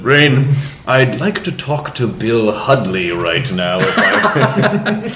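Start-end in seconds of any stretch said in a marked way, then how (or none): 0.0-3.8 slow, low, lightly voiced interviewer; slow hushed interviewer gravitas; James Lipton. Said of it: "we have to do the James Lipton".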